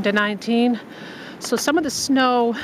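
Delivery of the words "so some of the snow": out of breath. Real, not acted. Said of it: "oh, lost my breath".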